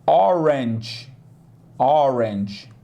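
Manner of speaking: Orange with a faint tch at the end, barely there; orange, soft ending. Shown as a demonstration. Teacher showing the faint G at the end of orange. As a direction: let Orange end on a weak tch, almost a hiss. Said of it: "mas muito fraquinho, tch, quase um chiado".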